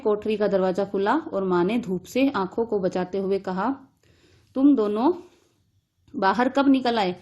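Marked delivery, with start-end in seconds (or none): 4.5-7.2 angry mother. Acted. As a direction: scold the children for sneaking out. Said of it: "माँ ने गुस्से में बोला".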